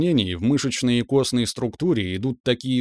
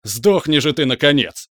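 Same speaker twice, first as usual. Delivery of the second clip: furious shout; 4 semitones higher, 5 dB louder than usual. Acted. Cleric attacks in fury.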